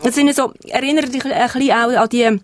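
talking with mouth full. Real, not acted. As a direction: talk through a mouthful. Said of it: "jetzt muss ich ein bisschen mit vollem Mund reden". (mit vollem Mund)

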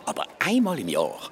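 mock spooky tale. Spooky zombie tale told teasingly.

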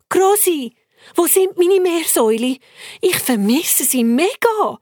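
put-on child calling for her grandma; eager girl calling. Sophia calls grandma for her pets, eager.

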